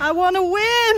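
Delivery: whiny shout. Real, not acted. Whining after repeating the line.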